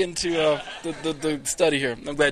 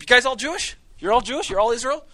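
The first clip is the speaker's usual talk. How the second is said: much higher, bright questions to a crowd; asking the whole group; 9 semitones higher, 3 dB louder than usual. Retold or imitated. Teacher mimics quizzing the whole group, pitched high. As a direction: lift each question high like hailing a group. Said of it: "I can just ask the whole group".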